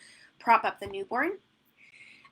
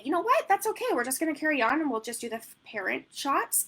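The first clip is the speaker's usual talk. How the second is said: put-on upbeat toddler voice; 6 semitones higher than usual. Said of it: "I sound ridiculous when I'm doing sessions".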